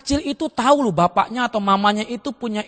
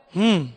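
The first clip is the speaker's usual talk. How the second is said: absent-minded "hmm" of a busy man; indifferent grunt; 3 semitones lower than usual. Acted. Busy father ignores son's request, uninterested grunt. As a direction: hum a reply without listening.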